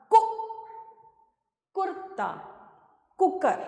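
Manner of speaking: कु said very short, then in कुर्ता and कुकर; short, snappy कु at the start of each word; quick short vowel. Shown as a demonstration. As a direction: keep the u in कु brief and quick. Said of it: "जल्दी से".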